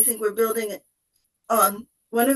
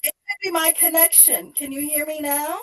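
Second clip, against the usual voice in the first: tin can sound; 3 semitones higher than usual. Real, not acted. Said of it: "it sounds like you're in a tin can".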